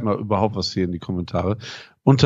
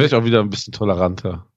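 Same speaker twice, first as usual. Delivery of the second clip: schnell und aufgedreht; hastig, wie nach zu viel Kaffee; much faster than usual. Real, not acted. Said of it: "Ich hab heute zu viel Kaffee getrunken". (aufgekratzt vom Koffein)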